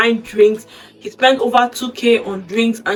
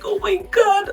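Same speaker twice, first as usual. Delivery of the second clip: excited; 11 semitones higher than usual. Retold or imitated. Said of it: "she was so excited".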